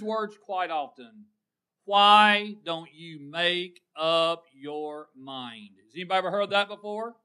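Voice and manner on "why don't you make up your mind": slow, loud, drawn-out mock exasperation. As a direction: drag out each word like a fed-up spouse. Acts out marital argument quote.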